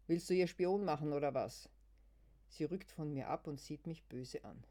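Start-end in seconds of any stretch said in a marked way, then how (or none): 0.1-1.7 hostile retort. Acted. Luise wird feindselig.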